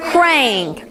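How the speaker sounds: Krang said short and quick; said fast. Shown as a demonstration. Teacher saying the word fast after the stretch. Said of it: "Say it real fast".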